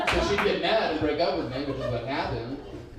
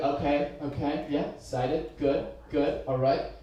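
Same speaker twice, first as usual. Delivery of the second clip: fussy reader character; slower than usual. Acted. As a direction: tick off each point under your breath. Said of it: "I'm making this character up".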